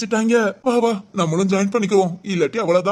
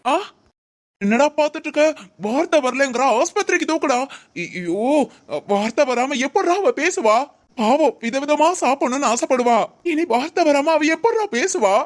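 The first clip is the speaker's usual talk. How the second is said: high, hammed-up alarmed wailing; overacted lament for Sindhu; mock panic; 4 semitones higher than usual. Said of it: "நடிப்பெல்லாம்". (மிகைப்படுத்தப்பட்ட நடிப்பு பதட்டம்)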